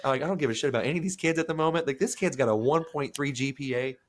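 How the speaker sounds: high, laughing mock-complaint; laughing, exasperated rant at the meeting. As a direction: rant about hunger through laughter. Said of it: "I'm like".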